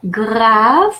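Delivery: grave said the French way, grahv; French pronunciation. Shown as a demonstration. Teacher contrasting French grave with English meaning. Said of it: "which means grave".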